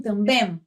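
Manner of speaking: TAMBÉM ending in a sounded M, as a question; wrong pronunciation. Shown as a demonstration. Teacher questioning a wrong pronunciation, sounded M ending. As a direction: ask TAMBÉM with lips closed on final M. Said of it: "Você fala assim".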